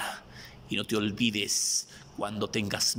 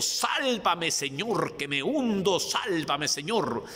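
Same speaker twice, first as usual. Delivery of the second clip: desperate plea; 6 semitones higher, slower than usual. Acted. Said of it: "como le dijo Simón Pedro".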